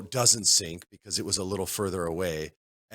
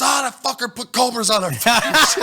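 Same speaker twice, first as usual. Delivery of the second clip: high, loud mock outrage; panicked yell; 7 dB louder than usual. Storyteller mimicking a gamer bitten by cobras, high panicked yelling. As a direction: imitate a player screaming about an attack. Imitating panicked player's outcry.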